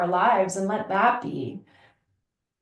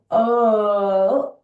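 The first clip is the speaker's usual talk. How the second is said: louder, mock dismayed gasp of an oh; 5 dB louder than usual. Woman spotting wrinkles, mock dismayed oh. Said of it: "instead of going".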